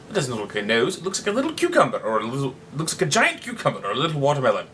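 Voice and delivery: fast, bouncy hint of a country bumpkin; lightly voiced rustic. Cyrano mocking the heckler as a light rustic. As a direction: play a simple country yokel, lightly.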